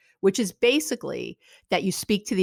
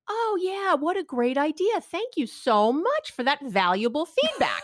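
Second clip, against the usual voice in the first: mock gratitude; 6 semitones higher than usual. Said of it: "Does your partner go".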